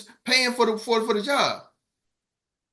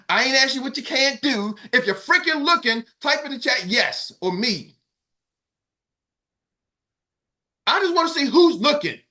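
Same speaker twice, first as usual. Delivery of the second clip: wired up yelling; 3 semitones higher than usual. Real, not acted. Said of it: "I'm wired up and I'm screaming, I'm yelling".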